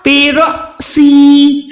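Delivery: बेरॉसी very slow, catch on the alif; jerked alif. Shown as a demonstration. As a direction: stop sharply after रॉ in बेरॉसी. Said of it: "तो यहाँ पर क्या होगा?". (झटके के साथ बेरॉसी)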